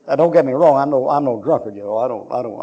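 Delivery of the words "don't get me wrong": ordinary talk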